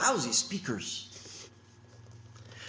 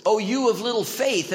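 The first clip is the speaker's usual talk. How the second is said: louder correct quote; 4 semitones higher, 5 dB louder than usual. Shown as a demonstration. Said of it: "It's always".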